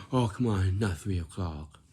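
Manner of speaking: loud protest, falling away; mock whiny objection. Shown as a demonstration. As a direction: complain loudly about being asked. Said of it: "And then you say".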